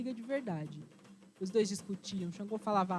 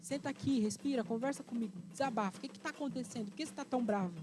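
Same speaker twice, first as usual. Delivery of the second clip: soothing friend; 3 semitones higher than usual. Acted. Exu soothing the furious Yansan.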